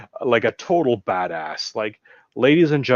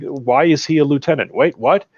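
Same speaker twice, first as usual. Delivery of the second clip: incredulous; 5 semitones higher, 4 dB louder than usual. Retold or imitated. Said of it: "You know, like".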